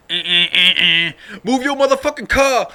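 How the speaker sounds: imitating honks, then a loud high shout; mock road-rage shouting; angry driver's yell. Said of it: "out the window instead".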